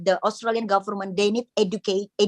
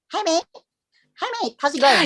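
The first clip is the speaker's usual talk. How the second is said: high-pitched mock Aussie greeting; quick, chirpy take on Australian mate talk; imitated Australian greeting; 9 semitones higher, faster than usual. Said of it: "they call mate".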